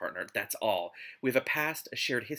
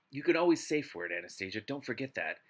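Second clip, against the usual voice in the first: story narration. Acted. Reads the novel aloud.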